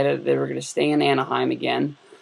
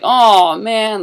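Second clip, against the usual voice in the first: mock groan; 7 semitones higher, 8 dB louder than usual. Group heckling stranger walking into photo.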